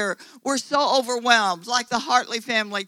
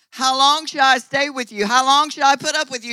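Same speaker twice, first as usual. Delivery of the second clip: raised, strained voice of rebuke; exasperated Jesus; 2 semitones higher, 6 dB louder than usual. Acted. Jesus rebuking the unbelieving generation, loud and exasperated. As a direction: cry out in exasperation at the faithless crowd. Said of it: "Jesus said".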